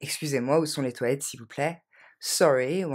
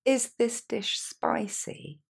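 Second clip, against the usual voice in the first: very slow model; 6 semitones higher, much slower than usual. Shown as a demonstration. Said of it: "Encore une fois".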